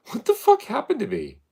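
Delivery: very high, loud exclaimed question; loud high-pitched disbelief; exaggerated incredulity. Real, not acted. Repeats it louder after laughing.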